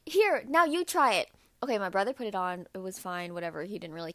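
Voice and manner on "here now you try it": mom quote. Retold or imitated. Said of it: "she was like".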